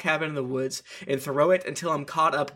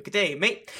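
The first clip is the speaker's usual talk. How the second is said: mock Aussie greeting; 4 semitones higher than usual. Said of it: "hear 'Good day, mate' from him".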